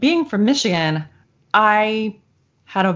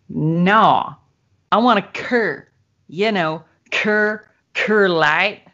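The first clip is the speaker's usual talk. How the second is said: lightly imitated Texas drawl saying "cur" for Coors; "cur, cur light" in a mild Texas accent; much slower than usual. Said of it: "very strong Texas accent".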